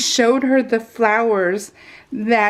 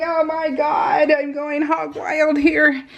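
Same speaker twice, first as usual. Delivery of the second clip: higher, slow hammed-up exclamation; mock excited shout; 5 semitones higher, slower than usual. Telling herself about buying cleaning samples, mock excited. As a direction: stretch it out in mock glee.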